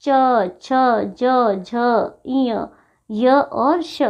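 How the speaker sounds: "च, छ, ज, झ, इय, य और श" each sounded separately at the palate; palatal articulation. Shown as a demonstration. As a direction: recite "च, छ, ज, झ, इय, य और श" with tongue to palate. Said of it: "जीभ देखिए तालु के पास जा रही है".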